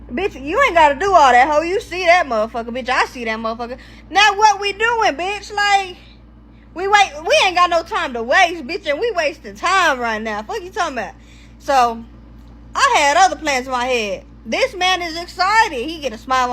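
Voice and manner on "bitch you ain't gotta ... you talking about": put-on higher, eager hyped-up boyfriend voice; lightly mocking an overexcited man. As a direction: imitate him all worked up. Voicing excited boyfriend.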